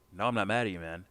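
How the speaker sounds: casual, mildly insistent denial. Acted. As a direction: play down being mad. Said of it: "You're not mad at me".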